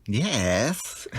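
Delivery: sheepish whispered yes; whispering. Real, not acted. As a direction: admit it in a whisper. Whispered confession of owning it.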